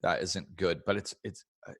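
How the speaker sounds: unhurried, settled and kind; peaceful. Shown as a demonstration. Showing a client the peaceful way to talk. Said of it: "the way I'm saying it already is more peaceful".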